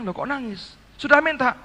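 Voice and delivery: mild mock surprise at the tears; husband lightly surprised to see his wife crying; startled question. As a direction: ask it half alarmed. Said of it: "Saya bilang".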